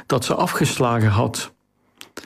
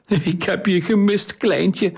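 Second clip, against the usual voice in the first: higher-pitched, playful fond greeting; affectionate teasing; 6 semitones higher than usual. A narrator's reading. Hermione hugging Kariline, teasing her as little one, affectionate.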